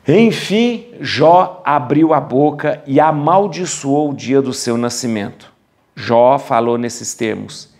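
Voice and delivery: solemn Bible reading with measured pauses; scripture reading. Acted. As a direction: declaim the verses phrase by phrase, leaning on key words. Reads the scripture passage aloud. (leitura bíblica solene e declamada)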